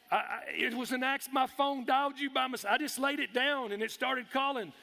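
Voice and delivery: high, stumbling flustered excuse; flustered explanation. Retold or imitated. Flustered excuse to 911 dispatcher.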